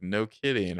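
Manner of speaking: understated imitation of dry sarcasm; dry deadpan. Quoting Holden's reaction to Ezra, imitated dry deadpan. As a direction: say it evenly and dryly. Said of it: "he's so dry".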